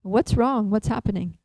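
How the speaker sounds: lightly acted concerned call, lifted at first. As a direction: call out to someone in distress. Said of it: "she calls out".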